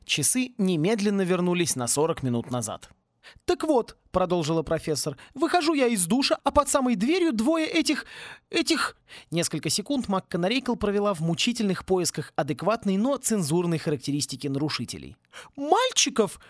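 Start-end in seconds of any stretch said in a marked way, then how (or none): 3.5-15.2 hammed-up furious professor yelling; furious dean. Dean tells angry story. 15.6-16.4 much higher spat-out word; exhaled word. A narrator's reading. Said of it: "наконец выдохнула она".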